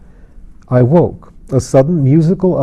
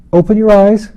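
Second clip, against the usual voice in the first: high, louder gleeful shout from afar; children shouting; 9 semitones higher, 5 dB louder than usual. A narrator's reading. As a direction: call it out like a crowd of hidden kids. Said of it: "twenty voices a little way off shouted at once".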